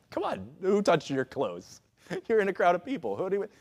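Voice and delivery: amused disbelief with a laugh; mock incredulous. Onlooker answering Jesus in a crowd, mock incredulous. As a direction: play up how silly the question seems.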